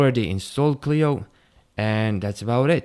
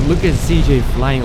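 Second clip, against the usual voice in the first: laughing; 6 dB louder than usual. Real, not acted. Laughing at ragdoll character.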